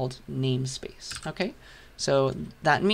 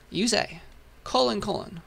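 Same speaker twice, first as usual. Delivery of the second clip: gleefully high colon, colon; a bit too happy saying colons; overexcited; 5 semitones higher than usual. Real, not acted. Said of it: "I'm too happy about the colons".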